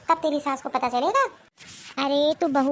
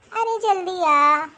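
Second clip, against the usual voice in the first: louder, higher, stretched-out summons; impatient call; 4 semitones higher, 5 dB louder, much slower than usual. Acted. Mother-in-law hurries her daughter-in-law over, impatient call. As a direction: hurry someone over from another room.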